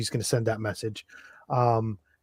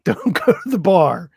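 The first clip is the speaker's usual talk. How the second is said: higher, louder acted warning; urgent warning; 6 semitones higher, 7 dB louder than usual. Player calls Huxley with a warning, urgent. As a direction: warn a friend off in a hurry.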